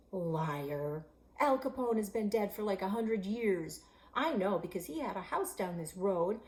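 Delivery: loud, scornful call-out; angry accusation. Acted. Boy calling out the girl's lie, loud and scornful. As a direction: catch her in the lie.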